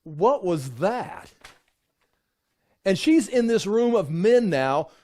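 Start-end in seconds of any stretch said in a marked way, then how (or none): 0.0-1.3 slow, incredulous sneer; slow, disdainful what-was-that; snorting scoff. Retold or imitated. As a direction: sneer at her like she's foolish. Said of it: "they snorted".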